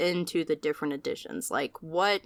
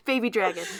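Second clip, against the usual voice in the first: put-on baby dragon noise; 3 semitones higher, 4 dB louder than usual. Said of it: "give us your best dragon noise".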